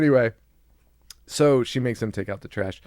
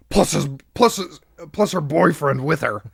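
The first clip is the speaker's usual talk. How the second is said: mock yell; 5 dB louder than usual. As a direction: blurt it out louder, breaking into a laugh. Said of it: "the speaker yells".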